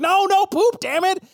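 very high, frantic protest; high-pitched frustrated outburst; exasperated dog. Acted. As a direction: squeal it in comic desperation. Frustrated dog corrects its owner.

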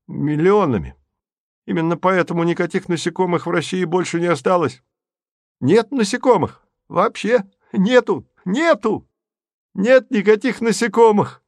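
a raving madman, pitch climbing; asylum patient. A narrator's reading. Manic rant about insects.

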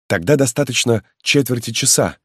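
a loyal lad pressing his lord to hurry; eager young peasant. Acted. Halmalo urges the marquis to flee, high and eager.

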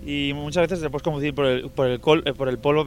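stumbling over words from the cold; shivering. Real, not acted. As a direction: teeth chattering, tripping on "col-" and "polvo". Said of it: "es que tengo frío y no puedo hablar".

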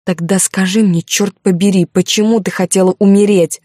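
a furious man confronting her; angry shout. Acted. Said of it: "закричал он".

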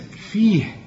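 فيه ending in a clear puff of h; breath-strengthened ha. Shown as a demonstration. Teacher strengthens the weak letter, audible final h. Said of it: "فقويها بنفسك".

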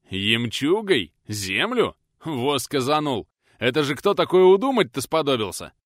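stunned villager exclaiming; astonished. Acted. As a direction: scoff in amazement at the idea. Milovan astonished at the idea.

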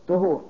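"طهور" with short a after ط; fatha on ṭā'. Shown as a demonstration. Teacher naming the water for ablution, fatha on ط in "طهور". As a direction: say "طهور" as ṭahūr. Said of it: "بالفتح".

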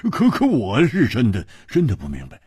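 stammering through a chuckle; laughing. A narrator's reading. Friend protesting to the princess that he's clueless, laughing. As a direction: start high with a laugh, then settle. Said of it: "胡铁花笑着说".

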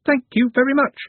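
high, loud skeleton voice; hoarse skeleton voice. A narrator's reading. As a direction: rattle it out like a talking skeleton. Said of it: "the skeleton articulated".

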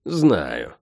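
offhand, dropped low; careless. Acted. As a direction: toss it off carelessly. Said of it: "небрежно ответила та".

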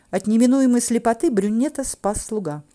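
usual speaking voice

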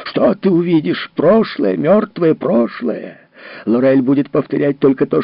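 high, loud, cutting anger; harsh berating. Acted. Husband rages at his grieving wife. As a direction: tear her hopes apart.

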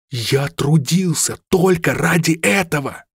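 high, slow, emphatic cry; exclaiming. A narrator's reading. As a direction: protest it with full conviction. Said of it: "воскликнул Рами".

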